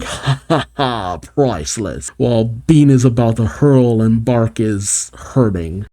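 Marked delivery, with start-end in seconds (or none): 0.0-2.1 laughing. Acted. Fang mocking his sickened partners, laughing. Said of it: "Fang laughing, going".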